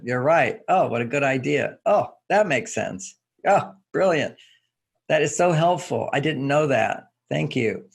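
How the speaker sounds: warmer appreciative take. Shown as a demonstration. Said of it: "I'll say it again".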